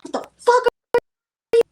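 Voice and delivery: shrill high yelled curse at strangers; crazy lady yelling. Retold or imitated. Coworker retells homeless lady cursing at passersby, high yell. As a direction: mimic the unhinged lady, loud and high. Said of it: "she's like".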